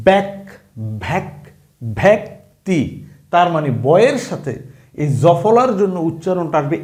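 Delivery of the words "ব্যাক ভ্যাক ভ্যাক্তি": ব্যাক with an open "æ", the wrong way; wrong pronunciation. Shown as a demonstration. Teacher to class, showing the wrong form: ব্যাক said with "æ". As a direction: demonstrate the mistaken "bæk" sound. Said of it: "এরকম না কিন্তু".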